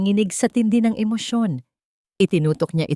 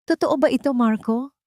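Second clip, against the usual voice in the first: shrill with fury; 8 semitones higher than usual. Acted. Betrayed lover confronting Marco over the recording, shrill fury. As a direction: demand the truth through rising rage. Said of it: "matinis na bulong ng pagkapuot".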